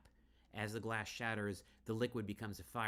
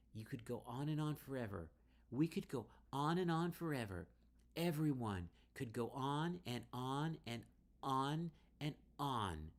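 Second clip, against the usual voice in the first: higher, louder, rising manic insistence; building taunt; 7 semitones higher, 5 dB louder than usual. Acted. Riley tempting Emerson with infinity, building manic intensity. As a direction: build it up like a spell.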